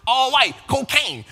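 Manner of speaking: slow, laughing through the tag line; laughing rapper imitation. Host laughing while mimicking a rapper's punchline ad-libs. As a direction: drag it out while cracking up. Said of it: "Y'all remember that version of Nicki?".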